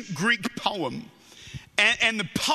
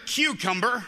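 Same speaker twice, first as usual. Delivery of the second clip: American pronunciation of "cucumber" with a sounded final r; American accent. Shown as a demonstration. Australian preacher showing the congregation their word, American accent. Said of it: "as you'd say in America".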